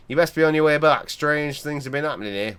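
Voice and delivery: lightly voiced gruff old local; a hint of a wary old seaman; old fisherman. Player reading the old fisherman warning a stranger, lightly voiced.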